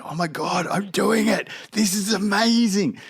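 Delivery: put-on high, thrilled little-kid voice; mock excitement. Boy halfway down the hill, acted high-pitched elation. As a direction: squeal it lightly, imitating a kid's triumph. Child thrilled while riding, retold.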